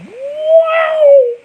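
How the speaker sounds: a high, loud laughing wow; loud mock wow. Retelling his wife's reaction, loud laughing wow. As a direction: blurt it out like the wife's big surprise.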